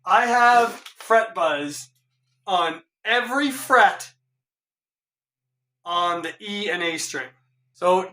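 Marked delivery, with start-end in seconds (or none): none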